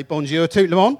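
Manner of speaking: put-on French said in a light Norfolk accent. Teacher greeting the class, Norfolk-accented French. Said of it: "speaks French with a Norfolk accent".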